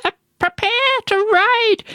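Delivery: very high-pitched battle call; rally the troops in a high cry; crying out orders. Acted. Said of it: "cried Mavis Jones".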